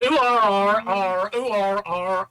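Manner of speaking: loud, drawn-out Suffolk "ooh arr"; Suffolk accent. Shown as a demonstration. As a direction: stretch the vowels in a broad Suffolk accent. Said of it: "in a Suffolk accent".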